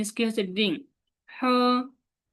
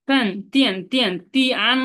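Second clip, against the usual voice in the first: ফ্যান তিয়ান called out louder, falling; loud tone drill; 3 semitones higher, 5 dB louder than usual. Shown as a demonstration. Teacher to class, loudly modelling ফ্যান তিয়ান. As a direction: belt out তিয়ান with a sharp drop. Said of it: "এরকম বলো".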